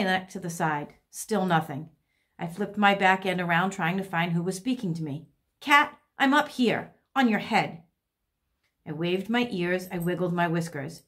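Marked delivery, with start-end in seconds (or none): 5.6-7.8 calling down. Acted. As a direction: call down to get someone's attention. Hidden bird calls down to cat.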